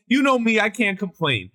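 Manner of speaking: grandma-style whine, starting high and dropping off; mock whining. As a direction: play the martyr, whining a little. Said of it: "they're just every whining".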